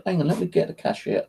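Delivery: high, soft cashier, lightly imitated; cashier's voice. Cashier going to fetch a colleague, lightly imitated. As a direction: pitch it up for a light cashier impersonation. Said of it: "She goes".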